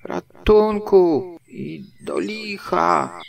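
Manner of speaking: high, loud, slowly stretched cry for help; desperate wail. A narrator's reading. Puchatek utknął, woła o pomoc. (wysoki, głośny, przeciągły krzyk rozpaczy)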